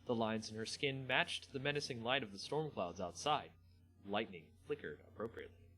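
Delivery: measured fantasy story reading; a lightly dramatised story read for the viewers; story narration. Acted. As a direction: read the tale to your viewers, steady and dramatic. Reads the Magic story aloud.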